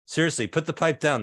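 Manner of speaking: mock-serious urgent warning; urgent aside. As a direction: drop the yell and urge them in earnest. Same words turned into earnest warning.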